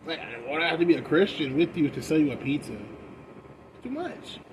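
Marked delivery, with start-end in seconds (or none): 2.7-4.4 drawn-out exasperation. Retold or imitated. Mock exasperation after pizza story.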